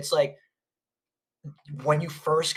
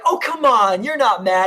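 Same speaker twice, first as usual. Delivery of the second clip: high, louder cooing voice with a cry in it; baby talk to a dog; 5 semitones higher, 6 dB louder than usual. Retold or imitated. Mom holding the grumpy dog, cooing high and loud. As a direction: coo at the dog like it's a baby.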